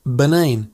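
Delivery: Banane with a drawn-out "ay" in the middle; stretched A. Shown as a demonstration. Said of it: "stretch that A sound a little".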